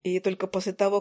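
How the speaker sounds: ordinary delivery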